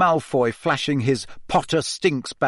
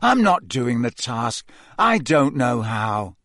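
hopeless; slower than usual. Acted. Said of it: "said hopelessly".

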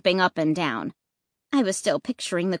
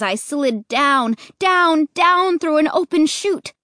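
slow then leaping higher and louder on each down; sliding down; 6 semitones higher, 4 dB louder than usual. A narrator's reading. Narrator sliding down the chute, voice leaping. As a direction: stretch it out, then jump up.

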